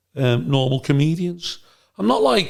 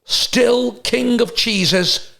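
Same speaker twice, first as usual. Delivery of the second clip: impression of Brian Badondi; 5 semitones higher, slower than usual. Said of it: "and goes".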